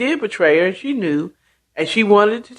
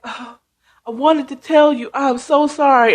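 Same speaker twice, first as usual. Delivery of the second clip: higher-pitched mock weepy pleading; imitated tearful apology; 5 semitones higher than usual. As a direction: plead as a crying friend caught out. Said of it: "Therese is crying".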